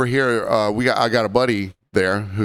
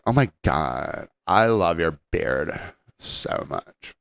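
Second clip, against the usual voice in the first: lower, slow, breathy swoon fading to a whisper; mock-seductive gushing over a beard; flirty woman; 8 semitones lower, 4 dB quieter, slower than usual. Retelling a flirty customer gushing over his buddy's beard.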